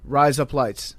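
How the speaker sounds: "Rise up, lights" run together to sound like Australian "razor blades". Shown as a demonstration. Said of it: "it makes it sound like you're saying razor blades in Australian".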